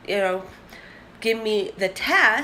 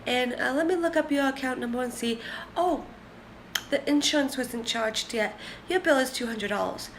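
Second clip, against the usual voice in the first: higher, lightly voiced helpful phone agent; chirpy customer service voice; 4 semitones higher than usual. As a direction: play the cheerful rep, pitched up. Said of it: "and she's like".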